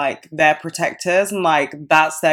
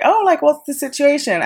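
bright, friendly question pitched higher, mock-casual; 10 semitones higher than usual. To the man in her Airbnb, friendly and casual. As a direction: sound breezy and friendly to a stranger. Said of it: "going in in a friendly manner".

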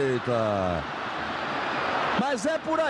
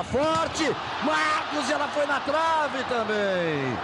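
excited shout; 4 semitones higher, much slower than usual. Real, not acted. Free kick hits the post.

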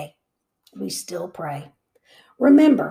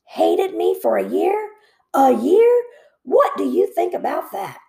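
louder, higher indignant grumble; grumbled; 6 semitones higher, 4 dB louder than usual. A narrator's reading. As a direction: rise in disbelief on A year. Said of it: "he grumbled".

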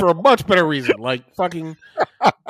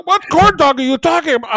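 put-on confused old man; 13 semitones higher, 6 dB louder than usual. Old dad voiced confused.

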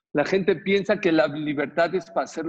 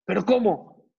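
higher, incredulous protest; retold protest; 6 semitones higher, 4 dB louder than usual. Daughter answers father's refusal, retold incredulous protest. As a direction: object in disbelief, pitched up.

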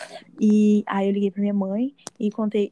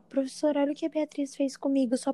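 whiny tattletale; 3 semitones higher than usual. Retold or imitated. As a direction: play the fake-innocent tattler to the teacher. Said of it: "falou bem assim". (criança dedurando, voz manhosa)

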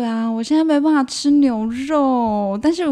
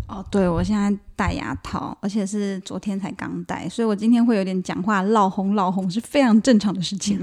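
speaking with new braces; words slightly slurred by braces. Real, not acted.

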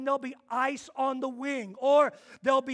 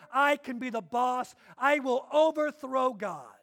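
louder, slow, proud Lucifer defiance; mock-proud rebel angel, louder; Lucifer's boast; 6 dB louder than usual. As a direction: swell up with Lucifer's pride. Lucifer's boast, retold in sermon.

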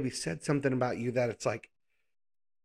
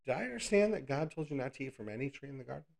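quick, slippery serpent voice, fast; sly serpent; 5 dB quieter, faster than usual. Acted. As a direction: tempt her lightly, rushing the words. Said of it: "What does he say?".

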